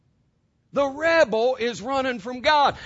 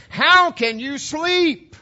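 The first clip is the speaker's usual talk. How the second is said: loud, higher, slow incredulous cry of a ship's captain; captain's alarmed shout; 7 semitones higher, 6 dB louder, much slower than usual. Retold or imitated. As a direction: shout it at the sleeping man in disbelief. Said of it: "and he says".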